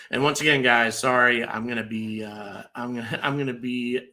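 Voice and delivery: hoarse, raspy voice from the flu; rasping, worn-out sick voice. Real, not acted. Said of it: "rasping voice".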